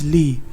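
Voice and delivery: "ली" given slowly as a separate syllable; isolated syllable. Shown as a demonstration. Teacher gives the last syllable, "ली" slow and isolated. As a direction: sound out "ली" on its own. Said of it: "and then last one is".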